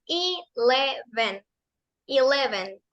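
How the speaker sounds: eleven said slowly as ileven, short E after; model eleven. Shown as a demonstration. Teacher repeating the number for the class, slow model. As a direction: say eleven with long I start, short E. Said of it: "que suena como E".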